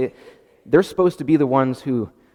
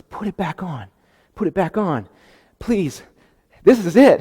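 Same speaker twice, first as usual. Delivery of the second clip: excited pleading; 5 semitones higher, 5 dB louder than usual. Acted. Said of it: "He's getting excited".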